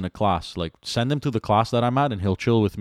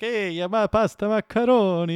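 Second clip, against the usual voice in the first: exaggerated, stereotyped Italian accent, pitched very high; 13 semitones higher than usual. Speaker retells how some people talk to him, in a mock Italian accent. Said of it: "there's also the East End Italian".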